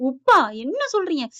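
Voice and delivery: high startled question; shocked. Retold or imitated. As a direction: catch his slip in alarm. Wife shocked by husband's slip. (அதிர்ச்சியுடன் கேள்வி)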